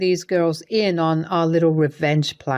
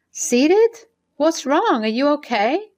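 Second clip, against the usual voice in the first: sudden worried outburst; alarmed; 8 semitones higher than usual. Acted. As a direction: jump in alarm at the news. Sarah alarmed by the call.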